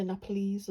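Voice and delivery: "Nepalese" said with a final long "eez"; alternative pronunciation. Shown as a demonstration. Vlogger citing how some people say it, "Nepalese" ending in "eez". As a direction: end "Nepalese" on a clear long ee sound. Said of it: "I think some people say".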